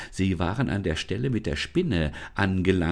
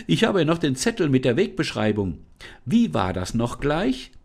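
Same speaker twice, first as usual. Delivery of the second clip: put-on girl calling out; 6 semitones higher, 4 dB louder than usual. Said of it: "rief Lisa".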